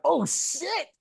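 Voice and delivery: high squeaky oh shit; shocked oh shit. Retold or imitated. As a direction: jump up in pitch as if caught off guard. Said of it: "And I'm like".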